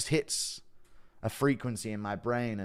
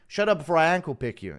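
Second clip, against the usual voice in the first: lightly imitated fighter's trash talk, higher and louder; Tony Ferguson; 7 semitones higher, 7 dB louder than usual. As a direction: quote the fighter with a bit of raised force. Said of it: "mine is Tony Ferguson".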